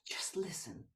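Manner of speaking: soft unvoiced whisper. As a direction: breathe the words in a whisper. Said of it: "I want to whisper something to you".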